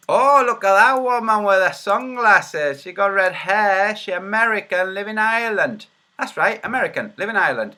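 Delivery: high, loud mock gawping; mocking commentary. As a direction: jeer in a put-on high voice. Mockingly points out woman in video.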